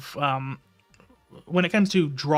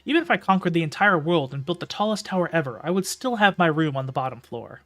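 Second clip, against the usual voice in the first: steady storytelling read; story narration. A narrator's reading. Reads the novel aloud.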